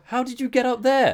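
high, loud amazed shout; astonished call up. Retold or imitated. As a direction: call up in disbelief. Heroes answer up from the hole.

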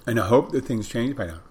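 talking while munching; chewing while talking. Real, not acted. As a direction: speak round a mouthful of food. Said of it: "I'm munching when I'm doing this stuff".

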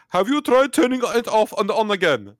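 put-on high, loud Indian-accented tech support; mock Indian accent. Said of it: "I shouldn't do an accent".

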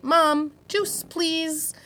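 big voice demo. Shown as a demonstration. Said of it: "I need you to use your big voice".

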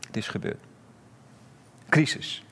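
hushed whisper, all breath; dramatic whisper. Acted. Preacher hushes congregation to a dramatic whisper. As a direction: drop to a whisper for the doom. Dramatic hush after disciples' fear.

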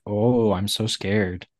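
slow, drawn-out mock fear; imitating a sarcastic taunt. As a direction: draw it out as if pretending to be scared. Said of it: "like, the sarcasm of".

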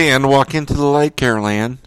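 calling out, a little high and loud; lightly hammed-up summons to Carol Ann; mock film call. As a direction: beckon her in a playful movie voice.

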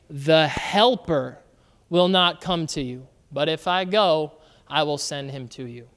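measured pulpit reading; scripture reading. Acted. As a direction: read the words of Jesus with weight. Pastor reads Jesus' words aloud.

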